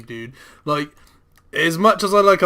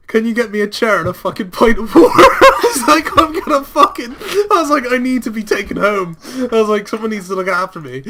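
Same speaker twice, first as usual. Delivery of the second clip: mock drunk plea; 6 semitones higher, 6 dB louder than usual. Drunk self at bar.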